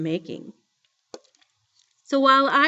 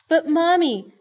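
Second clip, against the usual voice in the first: put-on high, louder childlike plea; getting sobby; 8 semitones higher, 6 dB louder than usual. A narrator's reading. Joey protests to her mother, starting to sob. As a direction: protest as a little girl near tears. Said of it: "starting to get all sobby".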